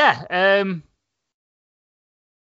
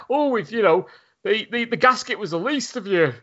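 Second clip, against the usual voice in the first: cheery salesman; 4 semitones higher than usual. Retold or imitated. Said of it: "this cheery, like, sort of demeanour".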